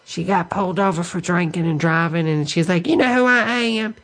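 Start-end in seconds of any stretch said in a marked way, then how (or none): 2.9-3.9 fake Southern accent. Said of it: "with that fake Southern accent".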